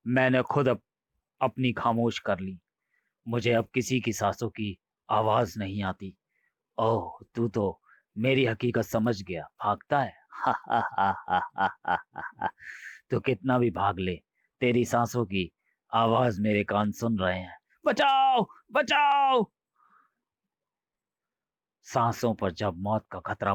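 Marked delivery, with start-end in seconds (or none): 3.3-10.3 lightly voiced ghost toying with his prey; menacing ghost. Ghost husband menacing coolie. 10.3-12.9 evil cackle. Acted. Ghost laughs at fleeing coolie. 13.1-17.6 lightly voiced ghost toying with his prey; menacing ghost. Ghost husband menacing coolie. 17.8-19.5 high, loud scream for help; terrified scream. Acted. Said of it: "जैसे तू चिल्ला रहा है".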